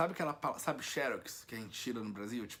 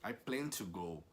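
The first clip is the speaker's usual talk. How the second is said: slow model sentence; slower than usual. Shown as a demonstration. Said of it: "Você fala".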